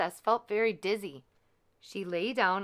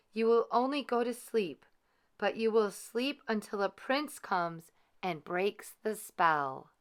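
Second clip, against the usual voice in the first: lightly higher fairy voice; gentle good fairy; 4 semitones higher than usual. Acted. Third fairy speaking to the baby, lightly raised voice. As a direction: soften the curse with hope.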